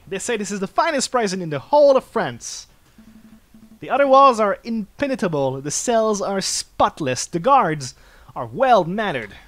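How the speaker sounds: proud French lawyer holding forth; stately Falcon, loud and pleased; pompous lawyer. Acted.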